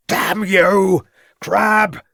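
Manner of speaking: very high, loud cry for help; urgent shout. A narrator's reading. Inspector calls on his constable to shoot, a high loud urgent shout. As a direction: scream the name across the rock. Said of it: "shouted Ravenscroft".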